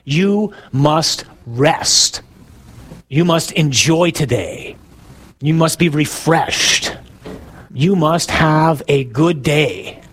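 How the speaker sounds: very slow, every word spaced out; slow emphatic command. Shown as a demonstration. Preacher urging the congregation to rest, slow and emphatic. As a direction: press each command home slowly. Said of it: "That's the command".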